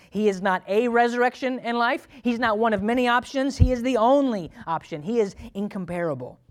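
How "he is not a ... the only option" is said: "a" and "the" set apart, loud and high; stress on the article. Shown as a demonstration. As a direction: lean hard on "a" then "the only". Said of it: "we went to the next word".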